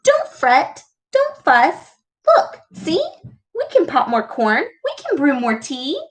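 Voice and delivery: lightly voiced squeaky mouse comforting the bear. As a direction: squeak it like a little mouse cheering a friend. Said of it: "Mouse squeaks".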